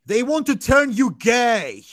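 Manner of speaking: slow and loud, a hammed-up doomsayer; mock conspiracy rant. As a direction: ham up the paranoid preacher.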